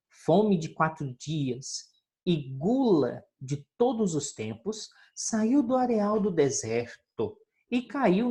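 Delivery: reading a fable aloud to the class; unhurried storybook reading voice; story narration. Acted. Teacher reading the fox fable to pupils, storytelling.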